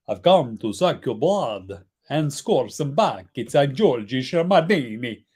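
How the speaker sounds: a lightly voiced, slow vampire accent; slow, hammed-up vampire line. Dad hamming up a vampire for the stream, slow mock vampire. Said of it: "Wow, that accent went some places".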